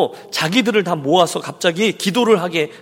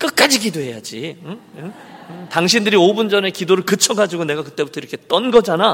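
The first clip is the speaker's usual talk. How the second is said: usual speaking voice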